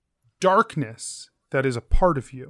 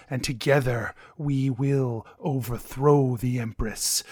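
vampire lord voice. Acted. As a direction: speak as an ancient vampire tempting. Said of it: "And he says".

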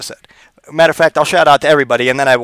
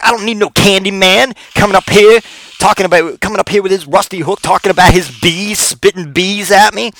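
high, loud indignant lady voice; ranting older woman, pitched up and loud; older black lady; 6 semitones higher, 5 dB louder than usual. Retold or imitated. Older lady refusing Candyman in her house, high and loud. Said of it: "hear her be like".

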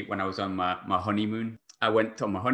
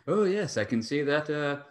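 higher-pitched, put-on knowing pundit; pretend expert; 5 semitones higher, 3 dB louder than usual. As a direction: fake being well-informed, reading off the stats. Mocks himself faking football knowledge from stats.

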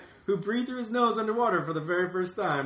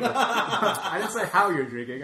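laughing; 2 semitones higher, 3 dB louder, slower than usual. Real, not acted. Teasing a guest.

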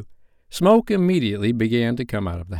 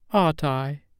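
Wendy, delighted; 5 semitones higher than usual. A narrator's reading. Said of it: "all shining".

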